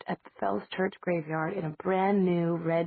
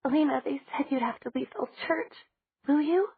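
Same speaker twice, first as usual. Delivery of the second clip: put-on tearful girl voice; 8 semitones higher than usual. Tearful Bonnie asks.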